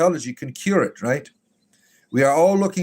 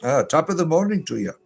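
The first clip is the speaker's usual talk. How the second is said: higher-pitched, playful Irish lilt; Irish brogue, hammed up; mock Irish accent; 3 semitones higher than usual. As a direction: put on a teasing Irish accent. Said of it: "a dash of Irish in there".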